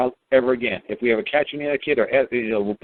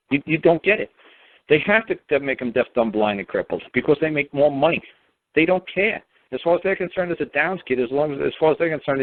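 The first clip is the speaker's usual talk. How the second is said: higher-pitched, indignant retold rant; raised, outraged voice laying it out for mom; heated rant; 4 semitones higher than usual. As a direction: vent it like you're still furious at them. Retelling angry rant to mom.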